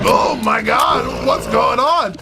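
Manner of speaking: high, loud shrieking panic; hammed-up manic yelling impression; Bobcat Goldthwait impression. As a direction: scream it like a cornered comedian. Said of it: "it's like Bobcat Goldthwait".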